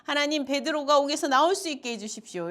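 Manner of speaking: retold prayer, pleading and picking up speed; earnest pleading. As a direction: plead with God in an urgent, even chant. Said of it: "막 간절하게 기도는".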